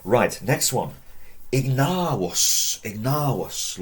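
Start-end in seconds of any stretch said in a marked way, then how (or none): 1.5-3.8 Ignavus with a long drawn A, ig-NAH-wos. Shown as a demonstration. Teacher introducing next Latin word, long A in Ignavus. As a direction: stretch the middle A of Ignavus, V as W. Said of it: "Long A".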